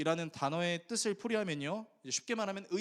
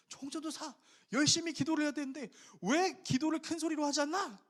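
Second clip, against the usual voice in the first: senior pastor; 10 semitones higher than usual. Retold or imitated. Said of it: "담임 목사님 오셔서 이렇게 피드백을 하신 거예요".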